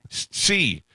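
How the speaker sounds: high-pitched imitated Hispanic-Asian "sí"; Hispanic-Asian accent. Driver confirming to customer, Hispanic-Asian accent. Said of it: "a Hispanic gentleman who sounded Asian".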